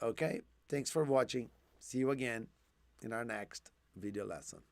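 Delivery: hoarse, fading voice; losing voice, low and hoarse; raspy whisper. Real, not acted. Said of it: "I'm losing my voice now".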